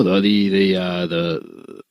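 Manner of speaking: stuck repeating the word; stalling stammer. Real, not acted. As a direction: stammer on it before getting out. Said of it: "Did you just, like, have a stroke?".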